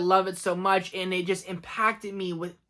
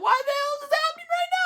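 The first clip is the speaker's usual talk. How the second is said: mock disbelief; faster than usual. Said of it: "And you're like".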